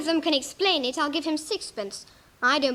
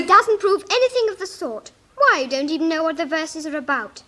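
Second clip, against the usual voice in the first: indignant protest; 2 semitones higher, 5 dB louder than usual. Acted. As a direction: push back hard at the king. Alice protests at the king.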